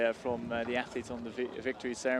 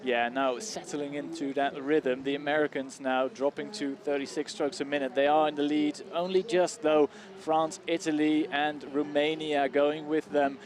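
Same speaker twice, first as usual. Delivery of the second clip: race caller; 3 semitones higher than usual. Acted. Live race commentary continues.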